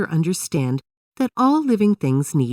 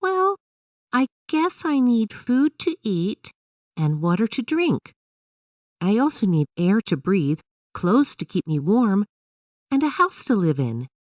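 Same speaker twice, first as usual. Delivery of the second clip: put-on high, thoughtful young girl; a child working it out aloud; Emily's voice; 7 semitones higher than usual. A narrator's reading. Emily lists what she needs to live, high girlish voice. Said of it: "Emily thought about it and said".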